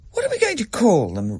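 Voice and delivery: put-on child Rachel. A narrator's reading. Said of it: "Rachel said".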